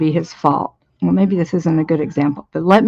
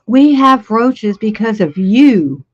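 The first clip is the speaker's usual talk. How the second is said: slow, mildly angry retold blame; measured mock accusation, slightly raised; mad accusation; 3 semitones higher, 4 dB louder, slower than usual. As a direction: imitate an annoyed partner laying blame. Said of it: "he got mad at me and he said".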